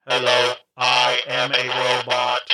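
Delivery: stiff mechanical robot voice. Retold or imitated. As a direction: speak like a toy robot. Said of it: "I don't like this robot".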